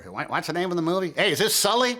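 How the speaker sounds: high, excited fan calling out; eager stranger recognizing someone. Retold or imitated. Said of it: "They get a lot of that".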